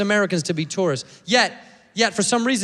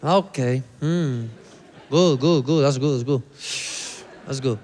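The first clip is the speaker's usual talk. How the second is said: unimpressed staff; 7 semitones lower than usual. Retold or imitated. Staff voiced low.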